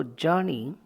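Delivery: JOUR-ney, first syllable strong, then falling; stress on "ja". Shown as a demonstration. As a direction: stress the opening of "journey", weak ending. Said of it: "ja is to be stressed".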